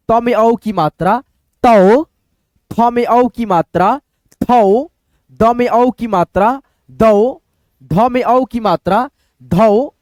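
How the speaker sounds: slow, even syllable-by-syllable reading; slow drill. Shown as a demonstration. Teacher slowly drilling au syllables for students. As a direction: spell each letter out slowly and evenly. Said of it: "syllable drill".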